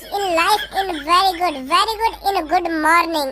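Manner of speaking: very slow bluffing English; string nonsense words slowly, confident; show-off gibberish English; slow fake English.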